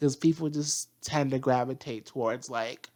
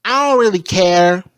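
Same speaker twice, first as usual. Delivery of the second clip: careless drawl; 4 semitones higher, 9 dB louder than usual. Retold or imitated. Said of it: "Mercury is like".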